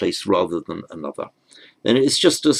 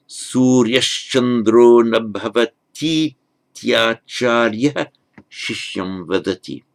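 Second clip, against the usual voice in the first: slow joined-up reading; 3 semitones higher, 3 dB louder than usual. Shown as a demonstration. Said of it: "So the whole sentence".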